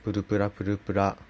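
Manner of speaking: プルプラプルプラ said fast with a flicked rolled r; rapid trilled r drill on プルプラプルプラ. Shown as a demonstration. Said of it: "やり方としては".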